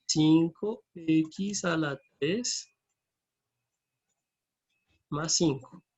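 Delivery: very slow, stretched words with pauses; drawn out, long gap before the last part; slow dictation. Real, not acted. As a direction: dictate it piece by piece as you write. Formula repeated slowly while entering it.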